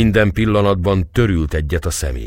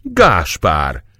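calling out; 3 dB louder than usual. Acted. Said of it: "Gergely rákiáltott".

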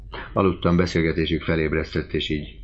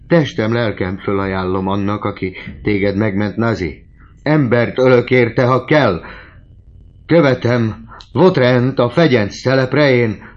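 high, loud desperate oath; frantic vow; 7 semitones higher, 8 dB louder than usual. A narrator's reading. Desperate father vows anything for his daughter, high and loud. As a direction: swear it wildly.

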